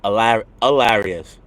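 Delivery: "hilarious" begun on a vowel, 'ilarious; dropped H. Shown as a demonstration. Streamer trying guest's "hilarious", leaving off the H. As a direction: copy "hilarious" with no H. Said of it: "oh, you skipped the A".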